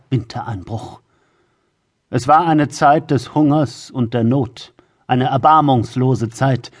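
grave, solemn storyteller voice; epic fantasy narrator. A narrator's reading. Epic prologue of a dark tale. (epischer Fantasy-Erzähler)

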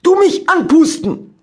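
loud, high, slow broken German threat; threatening shout. Acted. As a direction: demand it menacingly. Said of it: "rief er und hob drohend".

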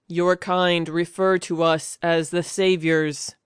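slow, stale robotic alien; flat machine-like delivery. Acted. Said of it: "its intonation robotic and stale".

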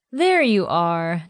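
slow, drawn-out teasing. Acted. Janae teasing Willie as lights come on, slow tease. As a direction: tease him slowly. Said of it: "Janae teased".

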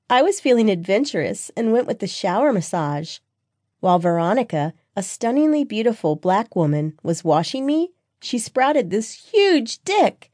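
put-on high-pitched, gossipy girlfriend voice; excitable best friend. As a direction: confide it high, drawing out the ending.

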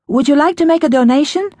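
high sweet stranger voice; eerily sweet caller. A narrator's reading. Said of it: "the woman's voice repeated".

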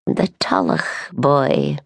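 slow, hushed whisper of gossip; dropped voice. A narrator's reading. Gossiping neighbour whispers to the baker. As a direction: lean in and whisper the name. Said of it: "Her voice dropped".

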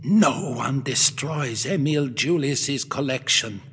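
put-on slow, seething old man's vow; shaking with rage. A narrator's reading. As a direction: spit it out through rage. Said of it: "shaking with rage".

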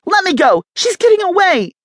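high, loud desperate shout; kidnapped woman yelling to be let go. A narrator's reading. Woman struggling against kidnappers.

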